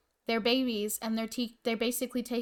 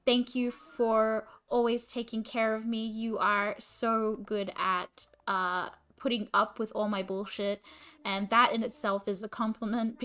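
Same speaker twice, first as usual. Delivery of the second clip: telling sleeping Michael why he is loved, tenderly; tender compliment. Real, not acted. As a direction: speak it gently to your partner. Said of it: "you want me to compliment Mike".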